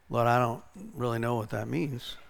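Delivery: low, soft admission; puzzled prayer. Retold or imitated. Preacher replaying his answer to the Lord, puzzled and quiet. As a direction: confess it quietly to God. Acting out puzzled reply to God.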